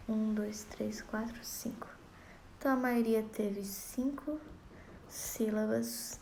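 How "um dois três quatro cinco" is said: counting that sinks into a whisper; fading count. Shown as a demonstration. Teacher counts poetic syllables, fading to a whisper. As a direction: count softly until it is only breath. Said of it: "teacher counts syllables aloud".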